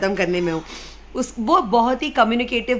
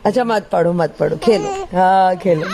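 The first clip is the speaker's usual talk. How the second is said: put-on loud, lower-dropping reassurance to a baby; playful giving-in; 3 semitones lower, 6 dB louder than usual. Mother letting her upset baby play instead, playful reassurance. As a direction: relent and cheer the baby up.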